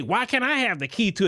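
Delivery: a hint of a demanding young woman; mocking young women. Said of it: "these little women today".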